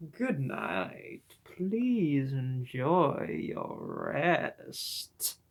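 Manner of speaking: slow, sugary nurse goodnight; sinister sweet nurse. Acted. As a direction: lull them falsely, very slowly. Nurse speaking to patient.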